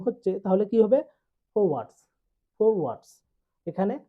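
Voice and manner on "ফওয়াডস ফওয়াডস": ফরওয়ার্ডস with both r's dropped; silent R. Shown as a demonstration. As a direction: say ফরওয়ার্ডস as "fo-wads". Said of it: "আর এর উচ্চারণ হবে না". (র বাদ দিয়ে ফরওয়ার্ডস)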